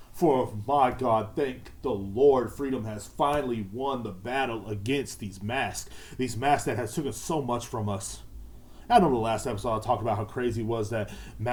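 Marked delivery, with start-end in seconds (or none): 0.1-5.9 mock solemn. Mock victory speech praising freedom.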